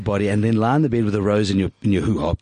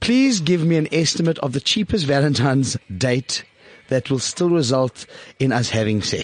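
reading the note aloud. Retold or imitated. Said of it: "This is what I'm reading".

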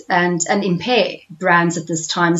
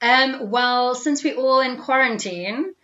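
boxed-in room sound; speaking from a closet; small room; 3 semitones higher than usual. Real, not acted. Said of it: "You sound like you're in a closet or some confined space".

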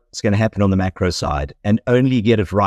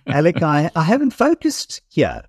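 laughing; 6 semitones higher than usual. Real, not acted. Laughing while admitting a mistake.

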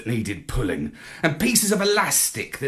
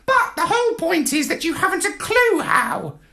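high squawky parrot voice, lofty; a lecturing bird looking down its beak; haughty parrot. A narrator's reading. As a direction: parrot correcting Marlowe, high and superior. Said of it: "said the parrot".

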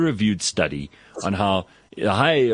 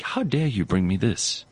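affronted. Retold or imitated. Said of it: "and he goes".

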